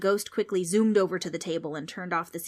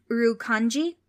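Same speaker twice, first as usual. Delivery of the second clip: put-on Australian kid; 5 semitones higher, 7 dB louder than usual. Darby asks.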